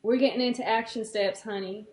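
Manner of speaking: put-on sweetheart in a country accent. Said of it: "action steps in the country accent".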